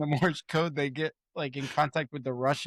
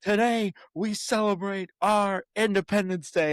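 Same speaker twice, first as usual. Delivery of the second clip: higher, rousing speech read; a lightly raised presidential rally voice; 4 semitones higher than usual. Retold or imitated. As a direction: proclaim it to the cheering crowd. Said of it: "He's like".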